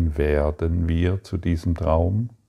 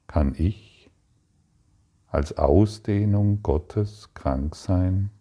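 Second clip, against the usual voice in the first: gentle inner question; slower than usual. Shown as a demonstration. Teacher asks the listener's inner question, slow and gentle. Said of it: "höre die sanfte Stimme".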